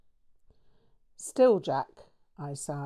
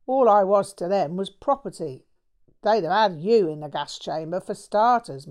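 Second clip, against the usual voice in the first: a lightly voiced cockney mate, ranting louder; Jack's ranting voice; 4 dB louder than usual. Bloke venting to his friend about his parents, angry rant. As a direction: spit it out, aggrieved and bitter.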